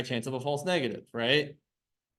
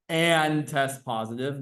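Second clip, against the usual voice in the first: "and" drawn out slowly; stress on AND; slower than usual. Shown as a demonstration. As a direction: lean on "and", stretching it before "test positive". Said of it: "Notice the emphasis on the word "and".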